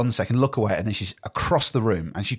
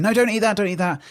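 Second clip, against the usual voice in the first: put-on sharp high warning call to a baby, fading on the repeat; parent warning; 10 semitones higher, 4 dB louder than usual. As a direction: snap a quick "No" at the crawling baby. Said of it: "So I have to keep saying".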